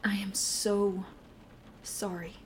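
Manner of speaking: breathy whisper fading to nothing; whispered apology. Acted. Apologising to frightened partner.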